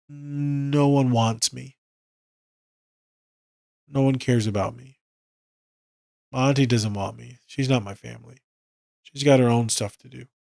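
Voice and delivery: quietly voiced lonely kid; mildly dejected. Voices Elio confiding he is unwanted.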